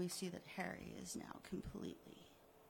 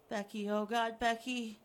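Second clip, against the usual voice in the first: louder, horrified calling; anguished cry; 8 dB louder than usual. Acted. Harry seeing Becky on the screen, horrified. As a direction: cry out her name in horror.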